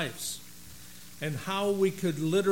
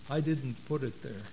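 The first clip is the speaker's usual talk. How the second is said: somber. Acted. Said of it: "Somberly, God said".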